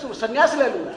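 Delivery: mocking the threat through laughter; laughing mockery. Real, not acted. Storyteller laughing at the husband's threat. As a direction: laugh while repeating his threat.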